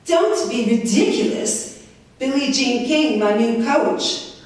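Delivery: put-on high, slow accented put-down; drawn-out scornful correction; Hana's accent. Hana corrects the reporter live on TV, slow and high with an accent. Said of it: "She says to me on network television".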